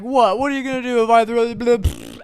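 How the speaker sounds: put-on high, fast taunting kid voice; mocking kid taunt. Kid taunts him about his dogs, high and fast. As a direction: play the bratty kid daring him.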